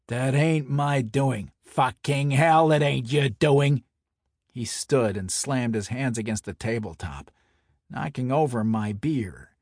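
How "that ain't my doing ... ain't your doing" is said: angry mobster. Acted. Santoni enraged, slams table.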